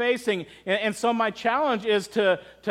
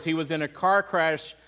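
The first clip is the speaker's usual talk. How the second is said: subdued, lowered voice for a weeping widow; understated retold grief; 3 semitones lower than usual. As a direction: retell her painful news gently. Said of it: "struggling with her words".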